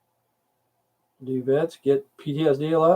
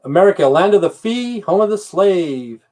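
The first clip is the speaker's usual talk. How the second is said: mock patriotic proclamation; 5 semitones higher, 3 dB louder than usual. Mocking America to his stream, proclaimed sarcastically. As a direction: proclaim it like a bitter national motto.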